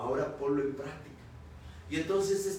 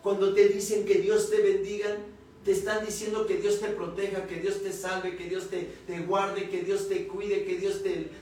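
raised, emphatic sermon delivery; preaching; 5 semitones higher, 6 dB louder than usual. Real, not acted. Preacher testifying to the congregation about obeying God, emphatic preaching.

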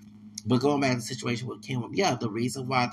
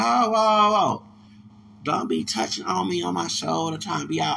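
loud, higher whoa-whoa pushback; startled shout; 4 semitones higher, 5 dB louder than usual. Retold or imitated. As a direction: back off, loudly alarmed at the touch. Pushing off drunk man touching him.

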